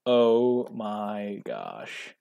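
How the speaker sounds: very slow, stretched oh my gosh; slow amazed exclamation; drawn-out disbelief. Real, not acted. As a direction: drag it out, stunned. Stunned by the play.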